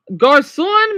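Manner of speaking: "Garçon" drawn out slowly, nasal ending, no final n; slow French demo. Shown as a demonstration. Teacher modelling the word for viewers, very slow. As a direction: spell out "Garçon" slowly for the class. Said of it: "Le, le garçon".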